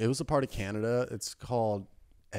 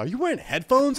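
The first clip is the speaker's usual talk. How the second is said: pitched way up, disbelieving; high incredulous question; 13 semitones higher, 7 dB louder than usual. Retold or imitated. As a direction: squeak out the question. Retold question to girl.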